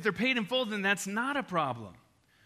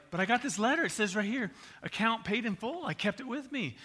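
worried protest; 4 semitones higher than usual. Retold or imitated. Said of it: "And I was like".

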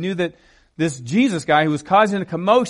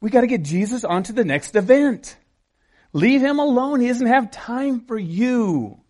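higher, mildly brusque dismissal; impatient disciples; 4 semitones higher than usual. Acted. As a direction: brush off someone in the way. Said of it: "what the disciples were doing".

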